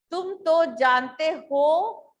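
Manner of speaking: तुम तो जानते हो slow, with हो drawn out and rising; pause after हो. Shown as a demonstration. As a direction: stretch हो upward and hang there before going on. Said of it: "फिर मैं थोड़ा सा रुकी".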